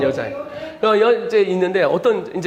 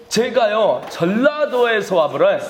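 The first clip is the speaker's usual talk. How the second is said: Jeolla dialect imitation. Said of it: "이 아이는 전라도 말을 하고 있어요".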